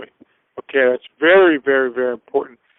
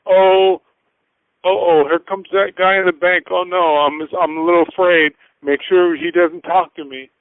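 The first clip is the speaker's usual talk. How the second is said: hammed-up banker dreading the customer; the banker dreading a bad client, mock nervous; 3 semitones higher than usual. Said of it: "Instead of".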